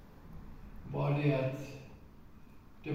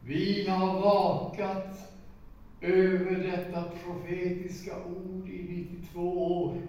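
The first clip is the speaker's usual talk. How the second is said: slow, louder solemn proclamation; voice of the angel; 3 semitones higher, 5 dB louder, slower than usual. Retold or imitated. Angel's voice heard in the kitchen, slow and solemn. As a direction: let heaven's voice ring out. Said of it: "hör jag en röst som säger".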